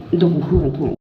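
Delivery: panting while running; out of breath mid-run. Real, not acted. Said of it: "on est en train de courir".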